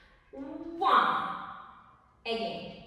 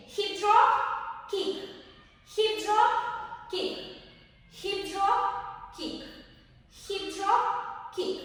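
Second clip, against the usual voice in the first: hip drop called higher on the beat, kick short; calling the steps; 4 semitones higher, slower than usual. Shown as a demonstration.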